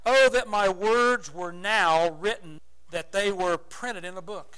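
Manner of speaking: loud, very slow lamenting cry. Acted. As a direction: stretch out a longing wail. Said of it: "Job cries out and said".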